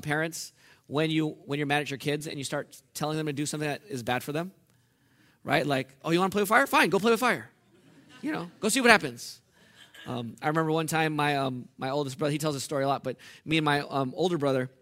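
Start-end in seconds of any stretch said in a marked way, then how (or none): 6.0-9.4 sarcastic parent. Retold or imitated. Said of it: "God sarcastic".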